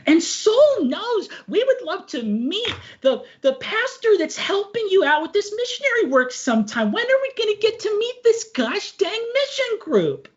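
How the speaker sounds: high, sweet proud mother; proud mom voice. Acted. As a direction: beam with folksy pride. Mom voice continues.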